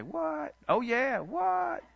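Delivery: high, incredulous "what?" with a double take; imitating the congregation's shock at the price; stunned disbelief. Congregation hearing the land deal, acting out high surprised disbelief. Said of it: "Y'all gonna say".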